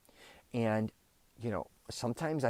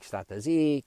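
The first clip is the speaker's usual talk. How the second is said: somewhat louder mock yell; retold yell; 4 semitones higher, 5 dB louder than usual. Telling the Italian guest to shut up, retold yell. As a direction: raise it a little, imitating the yelling. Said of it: "And then we're yelling".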